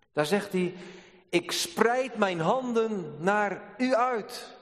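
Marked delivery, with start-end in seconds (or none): 1.3-4.6 slow, higher solemn verse; preacher quoting the psalm, slow; solemn reading. Acted. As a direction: read the verse slowly and solemnly.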